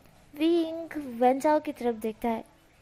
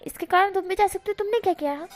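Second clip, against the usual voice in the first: alarmed quick question; 6 semitones higher, faster than usual. Acted.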